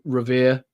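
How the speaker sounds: Revere said as "ruh-VEE-uh"; Boston pronunciation. Shown as a demonstration. Host showing his accent, Revere ending in "uh". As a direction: drop the final r in Revere. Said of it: "the way I say Revere".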